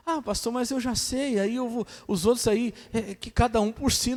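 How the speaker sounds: lightly voiced churchgoer making excuses. Churchgoer brushing off the pastor, mock excuse.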